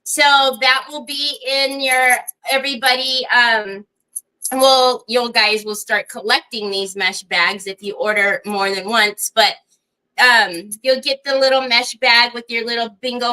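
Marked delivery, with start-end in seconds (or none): none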